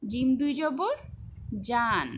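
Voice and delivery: letter name rising on জবর, then a falling জান; teacher's spell-out of জান; spelling recitation. Shown as a demonstration. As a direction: recite জিম দুই জবর, pause, then land on জান. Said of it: "সবগুলোর উচ্চারণ একটু দেখে নিলাম".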